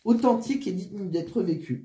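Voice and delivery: short of breath, flu-weakened voice; breathless, struggling for air. Real, not acted. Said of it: "je suis essoufflée avec ma grippe". (essoufflée, voix grippée)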